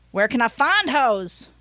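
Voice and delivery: Southern driver's question, leaning on FIND; Southern accent. Acted. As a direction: ask it with a Southern twang, stretching find. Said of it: "I gave him a Southern accent".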